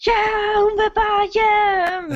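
high, slow jubilant shout; cheering crowd. Acted.

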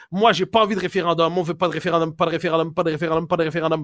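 droning mock mantra; mechanical repetition. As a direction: repeat it like a stuck formula. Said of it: "ils ont l'air de Rain Man".

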